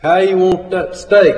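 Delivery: high-pitched call back; cook hollering. A narrator's reading. Cook asks the owner about the steak, hollering. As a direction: call the question back across the kitchen. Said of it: "cook holler".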